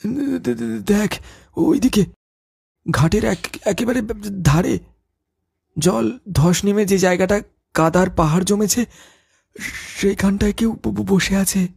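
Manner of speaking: stuttering in fear, voice catching; frightened stammer. Acted. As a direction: stammer out what he sees, scared. Stammering at a figure by ghat. (ভয়ে তোতলানো)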